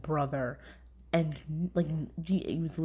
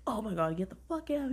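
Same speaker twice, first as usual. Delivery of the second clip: mock angry dad; 6 semitones higher, 3 dB louder than usual. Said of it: "He was, like, so mad".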